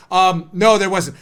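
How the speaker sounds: low-pitched answer, firm on "no"; witness repeating himself. Acted.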